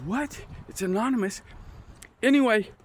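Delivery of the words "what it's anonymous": hushed retold disbelief. Inmate questions the officer's answer, in hushed disbelief. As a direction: echo it back under your breath, puzzled.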